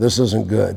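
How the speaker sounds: hushed, softly half-whispered. Retelling a story, showing how the line was half-whispered: retelling a half-whisper. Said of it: "I whispered to Joe Fambo".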